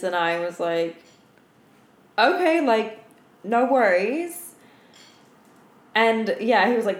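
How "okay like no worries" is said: higher, easygoing no worries; breezy reassurance. Retold or imitated. Stripper reassuring a customer at the bar, breezy. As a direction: brush it off lightly.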